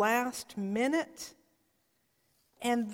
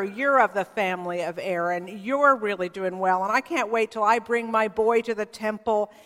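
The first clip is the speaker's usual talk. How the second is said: proud, puffed-up boast to his wife; bragging. Retold or imitated. Husband bragging to his wife about future sons, a touch boastful. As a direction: strut a little as you promise. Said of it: "he's bragging to her".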